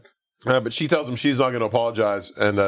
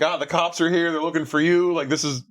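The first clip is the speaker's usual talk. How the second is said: put-on French accent; 5 semitones higher than usual. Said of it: "he does the whole French thing".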